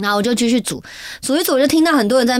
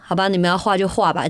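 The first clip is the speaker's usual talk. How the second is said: resigned; 5 semitones lower than usual. Retold or imitated. Gives in after crying.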